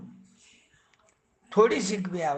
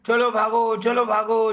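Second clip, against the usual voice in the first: two scared animals shouting together to flee; loud shout; 3 semitones higher, 4 dB louder than usual. Acted. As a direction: call it out louder, urgent. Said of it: "जोर से बोल रहे हैं".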